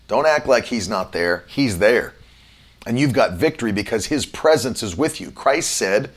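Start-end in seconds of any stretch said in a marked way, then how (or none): none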